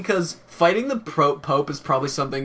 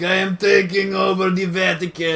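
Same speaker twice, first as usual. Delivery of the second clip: villain declaration; 4 semitones higher than usual. Pretend. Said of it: "I'd be like".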